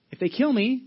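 a high, loud burst of defiant joy; loud and high, fearless; bold exclamation. Retold or imitated. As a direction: voice Paul daring them to do their worst. Paul facing possible execution, defiant.

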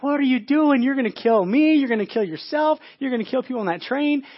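panicked high shout of an instructor; acted frantic outburst; screaming, freaking out. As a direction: yell at a reckless student driver, loud and high. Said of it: "They would be screaming at the top of their lungs".

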